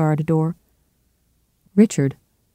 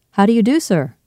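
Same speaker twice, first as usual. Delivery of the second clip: called pleasantly; 6 semitones higher, 3 dB louder than usual. A narrator's reading. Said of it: "he called pleasantly".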